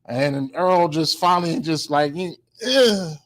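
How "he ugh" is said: feeble effort grunt. Retold or imitated. Imitates Earl's feeble swing.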